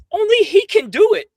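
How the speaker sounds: loud, high, heated outburst at an absent rival; angry rant. Real, not acted. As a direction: rage at him, voice up and loud.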